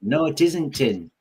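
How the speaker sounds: slow broad Yorkshire; Yorkshire meme. Retold or imitated. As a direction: draw it out in Yorkshire dialect. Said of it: "the latest Yorkshire meme going round".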